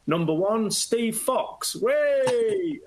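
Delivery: high, rising mock announcer call ending in a cheer; hammed-up matchday announcer; mock player announcement. Acts out teammate's mock player announcement.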